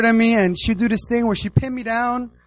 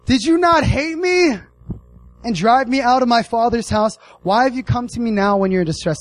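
indignant Jephthah; 5 semitones higher than usual. Retold or imitated. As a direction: throw their rejection back at them, pitched up. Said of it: "He says".

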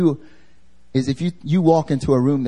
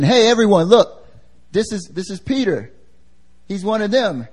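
higher voice, calling out to bystanders; accusing servant girl; 6 semitones higher than usual. Retold or imitated. Servant girl exposing Peter to everyone, high call-out. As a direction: raise the pitch and point him out publicly.

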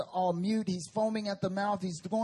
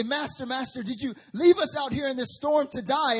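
higher, urgent plea; mild pleading panic; 6 semitones higher, 4 dB louder than usual. Retold or imitated. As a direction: beg him to wake up. Disciples wake Jesus in storm.

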